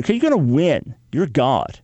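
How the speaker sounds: slow, deliberate protest to God; slow grudging complaint. Retold or imitated. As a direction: spell out the grievance slowly. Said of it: "Jeremiah's basically saying to the Lord".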